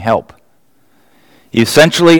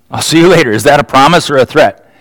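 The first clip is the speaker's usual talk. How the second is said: teasing; 3 semitones higher, faster than usual. Retold or imitated. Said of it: "phrase of affection".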